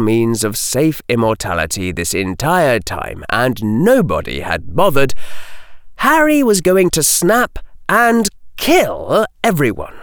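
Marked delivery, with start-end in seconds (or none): none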